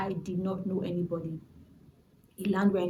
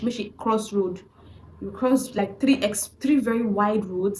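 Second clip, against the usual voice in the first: loud, raised Nigerian pidgin driver; driver calling out in pidgin; 4 dB louder than usual. Retold or imitated. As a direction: call out impatiently like a bus driver. Driver shouting at stranded passenger.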